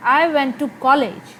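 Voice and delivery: slow, "college" stressed, falling; focus on college. Shown as a demonstration. Teacher showing focus on "college". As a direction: land the weight on "college". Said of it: "मैं focus कर रही हूँ कॉलेज पे".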